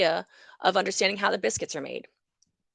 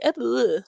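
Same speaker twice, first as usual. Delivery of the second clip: mock stumble; 4 semitones higher, 4 dB louder than usual. Shown as a demonstration. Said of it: "you start to say".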